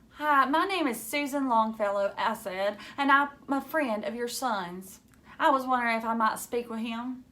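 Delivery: put-on lightly disguised girl on the phone. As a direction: pretend to be someone else. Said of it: "prepared to disguise my voice".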